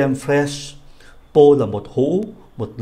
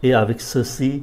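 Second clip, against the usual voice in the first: Et avec ceci rising at the end; asking tune on Et avec ceci; rising question tune. Shown as a demonstration. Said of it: "Chúng ta lên giọng".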